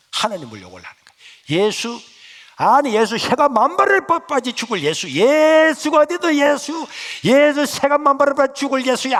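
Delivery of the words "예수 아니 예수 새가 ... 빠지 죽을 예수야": high, loud cursing rant; cursing mother. Retold or imitated. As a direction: curse Jesus like a furious mother. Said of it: "하면서 예수님을 욕을 하는 거야". (예수를 욕하며 고함치는 어머니)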